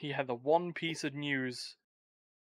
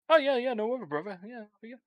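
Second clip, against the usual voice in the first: high, loud wrestler impression; Hulk Hogan voice; 6 semitones higher, 3 dB louder than usual. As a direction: talk like a pumped-up wrestler. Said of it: "he's not fucking Hulk Hogan".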